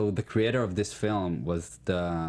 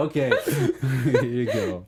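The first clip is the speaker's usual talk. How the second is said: universe granting wish; 5 semitones higher, 5 dB louder than usual. Pretend. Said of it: "the universe will say".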